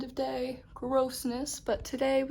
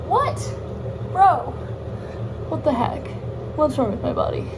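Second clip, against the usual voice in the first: shocked; 3 semitones higher, 7 dB louder than usual. Real, not acted. Shocked at bruise.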